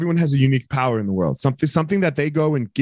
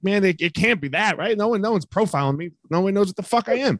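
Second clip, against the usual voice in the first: mock naive self; 7 semitones higher than usual. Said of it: "I'm like".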